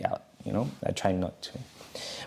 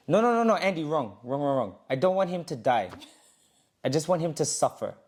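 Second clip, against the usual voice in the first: higher, lightly voiced comic trainer; mock trainer; 5 semitones higher than usual. Trainer stops the clinch, lightly voiced mock scold. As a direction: play the trainer scolding, half-joking.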